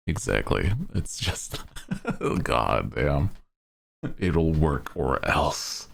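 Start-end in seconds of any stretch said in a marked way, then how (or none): 4.2-5.9 slow, menacing threat; lightly voiced shonen villain. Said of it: "Now you start to sound like a villain".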